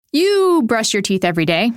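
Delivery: polished podcast sponsor read with lifted phrase openings; scripted ad read. Real, not acted. Host selling teeth whitening to listeners, scripted ad read. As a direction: pitch the product smoothly from copy.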